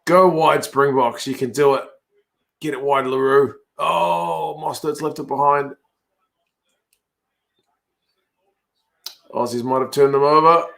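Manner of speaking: urging play-by-play, stretching out the key calls; live rugby commentary. Real, not acted. Fan calling Springboks and Aussies match live, play-by-play commentary. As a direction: call the play as it unfolds.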